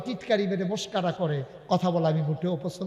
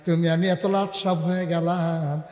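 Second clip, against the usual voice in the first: melodic preaching. Real, not acted. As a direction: chant the sermon to the crowd. Melodic sermon delivery.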